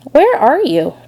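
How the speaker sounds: a hint of anxious searching; worried piglet. A narrator's reading. Piglet calls to unseen spider.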